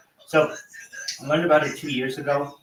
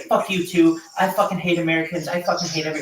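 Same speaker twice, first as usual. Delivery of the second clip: imitating a ranting stranger, higher and louder; mock angry outburst; 5 semitones higher, 4 dB louder than usual. Australian guy snapping back at the Discord chat, mock yell. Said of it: "And the Australian's like".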